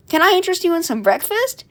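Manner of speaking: a hint of a high robot waiter; little robot. Little robot offers breakfast.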